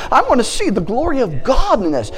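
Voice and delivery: playful victorious prayer; bold declaration. Pretend. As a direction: declare it like you mean it. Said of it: "you say".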